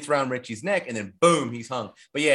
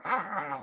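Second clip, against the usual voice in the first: high, soft imitated chuckle; mock chuckling; 5 semitones higher, 6 dB quieter than usual. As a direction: imitate their chuckling, softly. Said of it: "like, chuckling with the thing".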